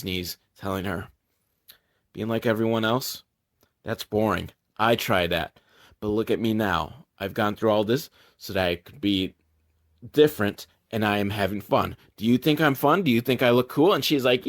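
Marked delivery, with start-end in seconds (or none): 2.1-13.9 low, soft voice of comfort; lightly acted, quiet heart-to-heart; gently reassuring. Jay on his knees telling the girl, softly reassuring.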